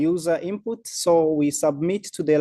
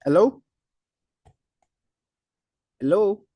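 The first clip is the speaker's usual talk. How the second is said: louder, rising hellos; calling out; 5 semitones higher, 3 dB louder than usual. Real, not acted. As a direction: call out to check you're heard. Checking if audible.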